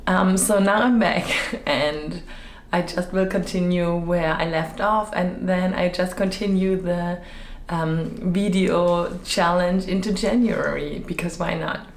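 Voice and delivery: slightly hoarse, still recovering. Real, not acted. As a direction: voice a bit rough after a cold. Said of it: "my voice is a little bit funny".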